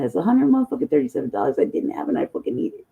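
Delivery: ordinary talk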